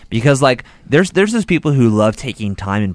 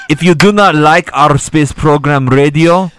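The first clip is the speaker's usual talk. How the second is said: put-on Russian accent; 3 dB louder than usual. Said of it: "can someone do Russian?".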